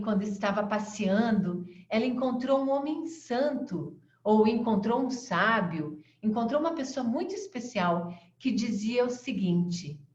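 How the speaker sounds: ordinary talk, nothing marked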